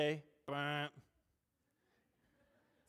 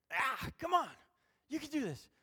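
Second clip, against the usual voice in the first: mock self-coaxing; 8 semitones higher than usual. Berry bush urging itself.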